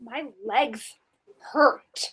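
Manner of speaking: very hushed, very quiet, low, super scared voice. In a group role-play where everybody is paranoid: super scared. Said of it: "super scared".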